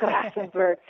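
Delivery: "Grafenberg" said with a German accent. Shown as a demonstration. Guest playfully naming a gynecologist for the host, German accent. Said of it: "you have to say it with a German accent".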